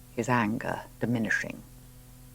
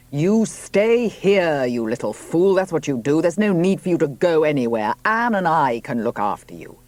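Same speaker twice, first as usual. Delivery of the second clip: a sharp, raised rebuke, pitched higher and louder; angry; 5 semitones higher, 5 dB louder than usual. A narrator's reading. Robert, suddenly angry at Juno, raised rebuke. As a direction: scold her as a little fool, with some heat. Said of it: "He was suddenly angry".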